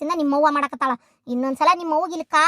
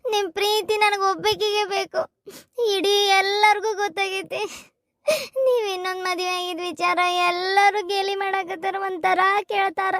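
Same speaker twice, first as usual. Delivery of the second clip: tearful pleading. Acted. Wife pleads with husband, crying.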